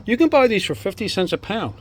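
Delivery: real excitement, pitch lifting on key words; eager, gushing show-and-tell; enthusiastic. Real, not acted. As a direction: marvel at the amazing finds. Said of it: "sorry about my enthusiasm here".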